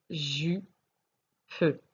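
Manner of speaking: ju, pe split into two syllables; teacher sounding out syllables. Shown as a demonstration. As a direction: sound out ju pe with a pause. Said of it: "à la première syllabe de jupe".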